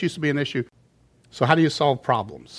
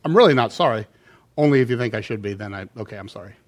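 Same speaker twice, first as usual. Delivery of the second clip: grudging apology; 5 semitones lower, faster than usual. Retold or imitated. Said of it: "What are you saying then?".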